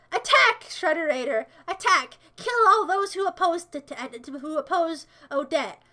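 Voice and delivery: hammed-up evil general; mock villain commands. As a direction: command your army like a cartoon villain. Commanding an imaginary army.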